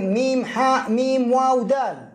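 slow letter names, mim ha mim waw dal; spelled letter by letter. Shown as a demonstration. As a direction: spell out ميم حاء ميم واو دال one letter at a time. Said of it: "فلن تقول".

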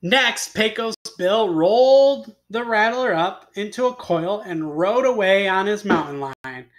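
animated tall-tale reading with punched words; expressive storyteller; story narration. A narrator's reading. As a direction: read it to children, leaning on key words. Reads a tall tale aloud.

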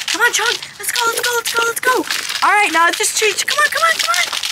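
high, loud excited urging. Real, not acted. Keeper urging serval Chong to chase the stick, high excited cheering.

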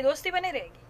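lightly mimicked leader slipping away. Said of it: "Modi जी कहे". ("दोस्ती बनी रहेगी" धीमी, डूबती आवाज़ में नकल)

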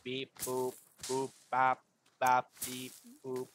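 slow beeping robot voice; drawn-out robot beeps; rusty robot. Acted. Friends answer in robot beeps.

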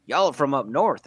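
lightly put-on Southern accent, pitched high; imitated Southern accent. Imitating southern Ohio folks, light Southern accent. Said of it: "have that Southern accent".

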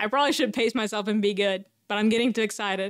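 quick, tumbling words; too fast, excited. Real, not acted. Gamer telling themselves to pace it, still rushed. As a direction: rattle it off in a hurry. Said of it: "getting too excited and going a little too fast".

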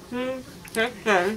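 numb mouth, slurred words; numb from the dentist. Real, not acted. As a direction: mumble through a numb mouth. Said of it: "My mouth is numb".

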